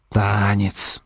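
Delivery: put-on drunk voice. A narrator's reading. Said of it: "раздумчиво пьяным голосом".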